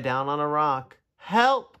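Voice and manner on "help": high, loud cry for help; calling for help. A narrator's reading. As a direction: call out sharply for rescue. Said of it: "called Tudley".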